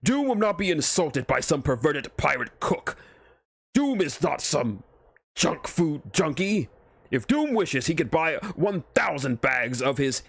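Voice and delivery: pompous armored tyrant, measured; Doom pronouncing judgment, grandly. Acted. Doom's tirade.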